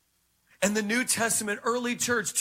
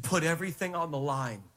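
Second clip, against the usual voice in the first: low, measured instruction with pauses; voice of God; 4 semitones lower than usual. Retold or imitated. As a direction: give a calm divine command, pitched down. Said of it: "He said".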